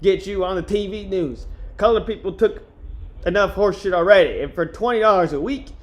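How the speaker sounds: put-on a loose New Orleans accent for Jones, slipping away as it goes; Jones's New Orleans accent. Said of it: "I lost the accent in that one".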